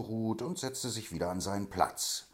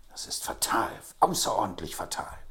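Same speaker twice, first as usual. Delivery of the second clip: louder, rising alarm on fatal; agitated outcry; 4 semitones higher, 5 dB louder than usual. A narrator's reading. Grinley alarmed that their scheme is exposed. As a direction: burst out in dismay. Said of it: "rief Grinley aus".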